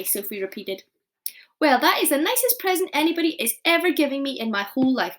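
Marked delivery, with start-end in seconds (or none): 1.6-5.2 louder happy exclamation; delighted cry. Acted. Giant thanking Sophie, overjoyed. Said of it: "cried the B F G".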